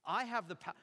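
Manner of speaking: punchy retold bragging; boastful. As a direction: imitate a governor flaunting his power. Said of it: "Pilate is, like, boasting".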